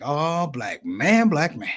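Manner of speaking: drawn-out, solemn repeated address; Nation of Islam brother. Retold or imitated. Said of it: "and the same brother is like".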